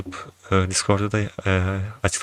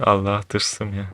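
laughing; slower than usual. Real, not acted.

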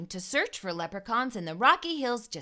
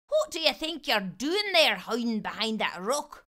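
leprechaun demanding. Acted. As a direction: demand an answer from the boy. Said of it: "the soggy little man demanded".

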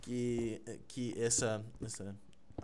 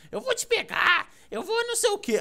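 much higher, laughing mock threat; mock angry threat. Teasing his friend, a high laughing mock threat. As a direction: squeak out a fake furious threat. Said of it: "Você fica".

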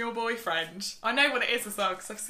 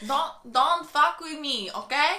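slow mock Mexican warning; slow Mexican-accented threat. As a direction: put on a Mexican accent, drawn out. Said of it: "you're good at Mexican".

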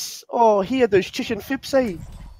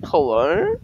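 high, rising startled "Hello?"; quoting the Vine girl waking up startled; startled meme hello; 14 semitones higher than usual. Retold or imitated. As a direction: wake up shocked and ask "Hello?". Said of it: "she's like".

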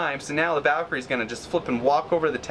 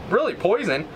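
Really? much higher, in disbelief; incredulous really; 7 semitones higher than usual. Real, not acted. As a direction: react in stunned disbelief. Opponent plays poison.

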